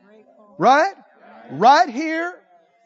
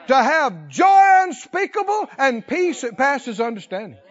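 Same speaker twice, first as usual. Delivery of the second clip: full force preaching; 3 semitones higher, 3 dB louder than usual. Acted. Preacher proclaiming joy to the listening church, loud and fervent. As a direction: build to ringing shouts on key words.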